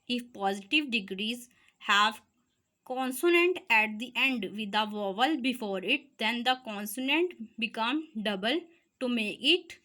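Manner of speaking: reads each English word slowly for notes; teacher dictating the rule to students, slow and deliberate; slow dictation read. Shown as a demonstration.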